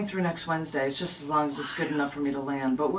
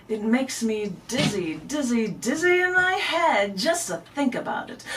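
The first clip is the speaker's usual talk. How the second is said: poetry reading. Acted. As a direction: read it as a lightly dizzy recital. Reads second poem aloud.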